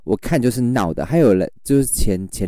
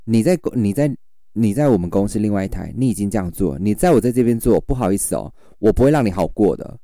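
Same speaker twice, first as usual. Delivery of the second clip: retold stern warning. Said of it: "然后我就直接说".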